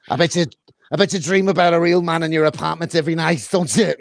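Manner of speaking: Clubber Lang impression. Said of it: "where he goes to fucking Adrian".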